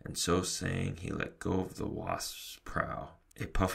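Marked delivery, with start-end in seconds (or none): none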